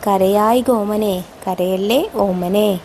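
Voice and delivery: put-on slow, tender coaxing of a child; mother soothing her child, unhurried; loving call. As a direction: gently draw it out, soothing a little one. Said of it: "ഒരു കുഞ്ഞിനെ സ്നേഹത്തോടെ വിളിക്കുകയാണല്ലേ".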